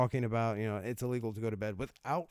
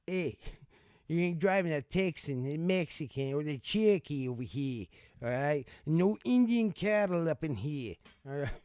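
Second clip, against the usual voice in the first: mock Boston tough guy, louder toward the end; Boston local impression; 2 semitones higher, 3 dB louder than usual. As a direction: play a Boston guy laying down the law, lightly. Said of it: "picture in my head someone in Boston".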